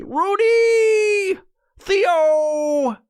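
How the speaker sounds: loud high shout across the house; calling out. Real, not acted. Calling the pets from another room, loud high shout. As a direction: yell the names to get attention.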